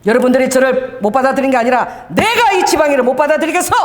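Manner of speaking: retold defiant outburst. Pastor defying the church officials before walking out, mildly heated. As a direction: throw it back at them, mildly heated. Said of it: "이러고 딱 일어나 버렸어".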